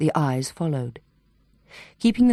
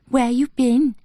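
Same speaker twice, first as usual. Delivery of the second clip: higher, hollow uncanny echo of the question; eerie echo; 7 semitones higher, 3 dB louder, slower than usual. A narrator's reading. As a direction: parrot it back, otherworldly. Possessed patient echoing questions.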